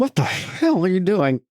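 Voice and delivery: slow high pompous shout; echoing rich man voice. Retold or imitated. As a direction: shout it back like the snooty tycoon.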